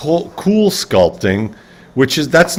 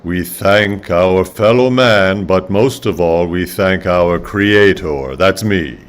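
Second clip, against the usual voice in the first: slow, lordly divine voice; God voice; 4 semitones lower, slower than usual. Pretend. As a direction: speak as an almighty god. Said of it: "That God?".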